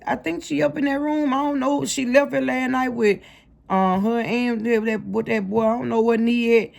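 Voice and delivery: a hint of a worried mother saying I don't know; imitating mama. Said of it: "I heard my mama say".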